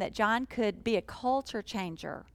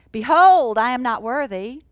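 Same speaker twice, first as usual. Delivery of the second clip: loud, grand "Behold, I am not worthy"; proclaiming loudly; 3 semitones higher, 10 dB louder than usual. Shown as a demonstration. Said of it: "He didn't say".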